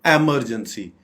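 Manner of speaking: "इमरजेंसी" said EM-er-jen-see; wrong pronunciation. Shown as a demonstration. Teacher warning against it, "इमरजेंसी" as EM-er-jen-see. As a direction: open "इमरजेंसी" with EM. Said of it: "ये बिल्कुल गलत pronunciation है".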